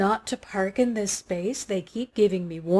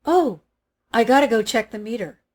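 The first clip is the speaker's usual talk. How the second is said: blurted out; 4 dB louder, faster than usual. Retold or imitated. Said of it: "I blurt out".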